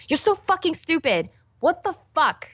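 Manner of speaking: high whiny self-scolding; frustrated mock rant; yelling at myself. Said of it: "yelling at myself like that".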